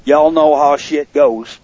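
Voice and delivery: slow southern drawl; southern accent. Real, not acted. Host shrugs off a mishap to the listeners, southern accent. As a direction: stretch it out in a slight southern accent. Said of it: "That's a southern accent".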